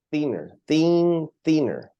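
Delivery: Thinner and thin said slowly, the th clearly voiced out; pronunciation drill. Shown as a demonstration. Teacher correcting a student's word, slow pronunciation drill. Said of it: "the word here is".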